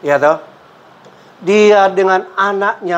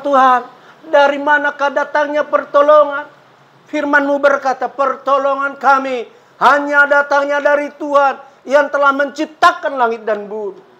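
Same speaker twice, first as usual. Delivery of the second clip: higher-pitched, declaimed prayer and scripture; impassioned preaching; 6 semitones higher than usual. Acted. Preacher asking God where help comes from, impassioned. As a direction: recite the verse with raised pitch and conviction.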